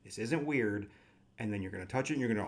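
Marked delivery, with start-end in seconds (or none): 0.0-0.9 mock-polite stranger at the door; lightly hammed-up courtesy; very politely. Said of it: "very politely".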